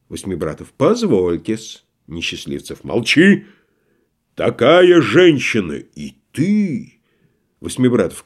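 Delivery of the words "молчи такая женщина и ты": a lightly voiced tragedian, scornful; hint of theatrical outrage; indignant tragic actor. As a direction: scold him like a stage hero. Tragedian berates merchant.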